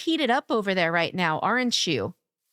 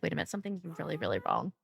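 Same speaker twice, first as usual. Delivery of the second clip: a mock yell done low and much softer, barely raised; calmest yell; 9 semitones lower, 10 dB quieter, much faster than usual. Low, soft deadpan mock yell. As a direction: streamer retells her panic to chat as a calm yell. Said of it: "That was the calmest Cuppy yell".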